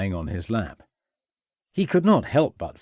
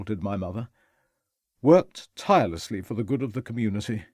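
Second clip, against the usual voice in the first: reflective, melancholic. Acted. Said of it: "adopting a reflective, melancholic tone".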